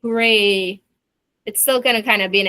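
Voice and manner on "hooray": hooray said flat with a straight face; deadpan. Shown as a demonstration. Teacher mocking a straight-faced cheer, deadpan. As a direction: say Hooray with no excitement. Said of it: "with a straight face".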